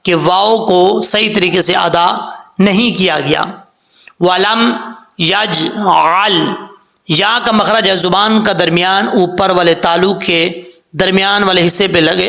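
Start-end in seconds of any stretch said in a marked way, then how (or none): 4.2-6.5 very slow, drawn-out recitation; slow recitation demo. Shown as a demonstration. Teacher modelling the word for students. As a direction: recite یجعل slowly. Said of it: "teacher reciting the example word".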